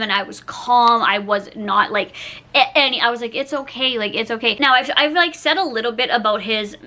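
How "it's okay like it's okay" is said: reassuring. Retold or imitated. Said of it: "I was comforting him".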